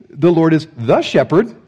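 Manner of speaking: slow, with "the" stressed and rising. Shown as a demonstration. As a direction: hit "the" in "The Lord is the shepherd". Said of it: "He doesn't say".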